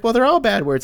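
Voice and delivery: put-on high-pitched kid retort; little daughter protesting. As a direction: argue back in a child's high voice. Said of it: "she's like".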